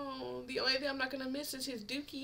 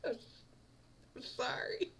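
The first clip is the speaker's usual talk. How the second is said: whispered sorry; 6 semitones higher, 7 dB quieter than usual. Real, not acted. Apologising through laughter.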